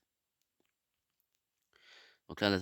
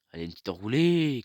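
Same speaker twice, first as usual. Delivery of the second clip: excited shout; 2 semitones higher, 10 dB louder than usual. Real, not acted. Curling shot on goal.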